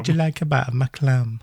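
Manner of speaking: lighter mock Scottish Hammond voice; Scottish accent. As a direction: repeat Hammond's line in a hint of Scots. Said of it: "that's what he says".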